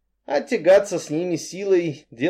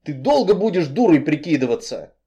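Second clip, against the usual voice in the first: growling; 2 semitones higher than usual. Acted. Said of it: "зарычал парень".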